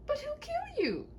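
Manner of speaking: high, breathless whisper; frightened whisper. Acted. Princess fearing for the knight, whispering. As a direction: whisper it in dread.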